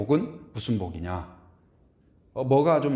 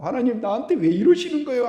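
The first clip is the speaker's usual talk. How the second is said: complaining prayer; 8 semitones higher, 5 dB louder than usual. Retold or imitated. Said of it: "우리가 그렇게 기도할 때".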